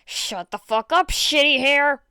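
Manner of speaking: loud snarling bark; furious bark. Acted. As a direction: snap it out loud and harsh. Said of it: "he barked".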